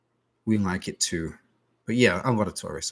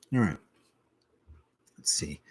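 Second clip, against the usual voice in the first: whisper; 4 semitones lower, 3 dB quieter than usual. Real, not acted. Whispered aside to self.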